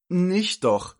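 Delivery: high, loud cry of protest; alarmed call. Acted. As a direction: call out to stop the child. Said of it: "riefen die anderen Tanten". (laut und hoch gerufen)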